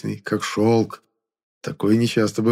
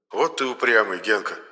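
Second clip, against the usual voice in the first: sighing rebuke. Acted. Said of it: "вздохнул Моня".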